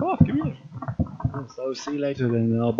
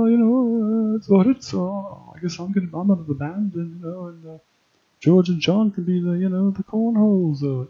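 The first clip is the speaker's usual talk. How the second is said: put-on rambling musician; 3 semitones higher than usual. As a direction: ramble on like a sloppy, slurring rock drummer. Drunk rambling Beatle character bit.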